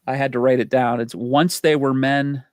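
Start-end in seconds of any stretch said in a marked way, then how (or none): 1.1-2.4 slow, deliberate movie-quote delivery; quoted movie line. Retold or imitated. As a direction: recite it slowly, spacing out the words. Quotes favorite line of movie dialogue.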